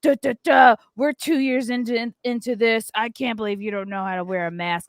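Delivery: hammed-up angry husband barking; mock barking. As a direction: imitate a big man barking at you. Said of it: "barking like".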